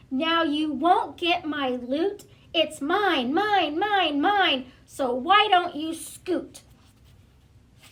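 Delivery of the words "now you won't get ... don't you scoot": louder gloating pug chant of mine; gloating shout. Acted. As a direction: crow it down at Trevor like a greedy winner. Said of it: "shouted Pig".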